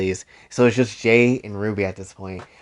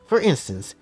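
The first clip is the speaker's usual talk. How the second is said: haughty attendant; 4 semitones higher than usual. Acted. Caroline role voice.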